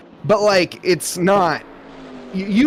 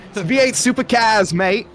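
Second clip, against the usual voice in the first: put-on Australian accent; 5 semitones higher than usual. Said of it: "that terrible Australian accent".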